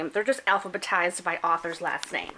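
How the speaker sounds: hiccup-broken speech. Real, not acted. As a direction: talk with hiccups. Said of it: "I have the hiccups".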